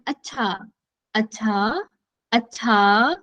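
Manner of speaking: each अच्छा in a new tune, falling then rising twice; light take on Aamir Khan's अच्छा from PK; PK-style acchha. Retold or imitated. Teacher shows class PK's changing अच्छा, lightly mimicked. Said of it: "पीके जो वो बोलते हैं ना बीच बीच में".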